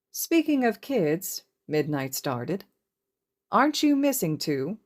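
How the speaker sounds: high, slow teasing question to Shota; Midnight's voice. Acted. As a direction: tease him about the missing kids.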